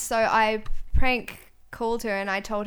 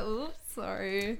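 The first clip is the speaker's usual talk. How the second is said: put-on slow, sheepish accented "Oops, sorry"; bad Thai accent; 5 dB quieter, much slower than usual. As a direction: drag out the apology in accent. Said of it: "And I was like".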